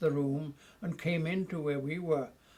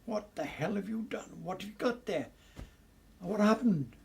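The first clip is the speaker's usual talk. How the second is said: higher-pitched questioning, louder at the end; startled demand; 6 semitones higher, 4 dB louder than usual. Retold or imitated. Narrator retelling how he confronted Titch with the rifle, startled demand. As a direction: re-enact an incredulous demand for an explanation.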